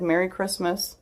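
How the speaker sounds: imitated quiet, reassuring well-wishing; comforting. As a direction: say it gently, like a squeeze on the shoulder. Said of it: "it was comforting".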